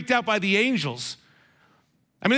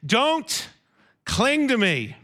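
a kind, unhurried Don't cling to me; tender caution, no annoyance; gentle not annoyed; 3 semitones higher, slower than usual. Shown as a demonstration. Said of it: "He doesn't say it 'cause he's annoyed".

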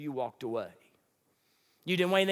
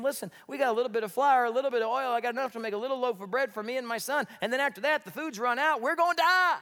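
desperate widow; 6 semitones higher, faster than usual. Retold or imitated. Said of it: "you just clearly explained to him".

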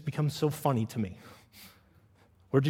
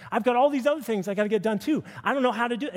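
mock-fretful congregant; anxious objector; 6 semitones higher than usual. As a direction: plead like a busy believer overwhelmed. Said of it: "some of you may be going".

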